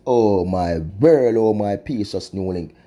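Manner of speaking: drawn-out mournful sigh of a refrain; slow lament. Real, not acted. Vlogger lamenting to viewers, slow mournful refrain. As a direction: moan it slowly, shaking your head in disbelief.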